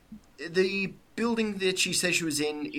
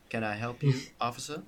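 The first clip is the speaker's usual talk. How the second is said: put-on Southern accent; 3 dB quieter than usual. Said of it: "not do a Southern American accent".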